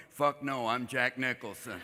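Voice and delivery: low, quiet Nicholson growl; lazy, menacing Jack Nicholson; Jack Nicholson impression. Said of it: "except for Nicholson. He's going".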